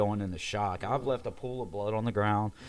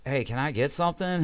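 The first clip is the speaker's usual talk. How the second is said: higher, more forceful repeat ask; insistent request; 5 semitones higher, 4 dB louder than usual. Retold or imitated. Ignored patient calls to staff for pain relief, insistent. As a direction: call out for attention, pitched up. Asks again after being refused.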